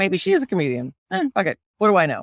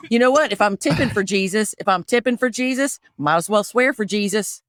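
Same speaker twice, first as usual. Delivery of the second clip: put-on playful Southern church-lady accent. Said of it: "So I'll do Southern".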